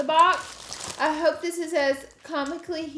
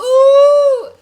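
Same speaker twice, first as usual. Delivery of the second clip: delighted ooh; 12 semitones higher, 18 dB louder than usual. Real, not acted. Delighted at earrings.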